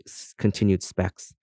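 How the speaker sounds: ordinary delivery, nothing marked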